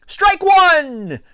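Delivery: loud, high drawn-out umpire-style yell; shouted call. A narrator's reading. Boy calling his own pitch, high shout. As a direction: call it out high across the field. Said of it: "I shouted myself".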